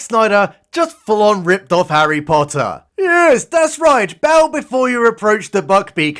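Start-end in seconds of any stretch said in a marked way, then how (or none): 3.0-6.2 high, drawn-out mock approval; mock encouragement. Narrator mockingly coaching Harry through meeting the creature, mock encouragement. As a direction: draw it out high, as if coaching a pupil.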